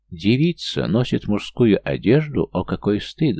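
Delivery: scandalized loud countess; loud exclamation. Acted. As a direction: exclaim it, shocked. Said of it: "громко воскликнула графиня Калерия". (громко, возмущённо)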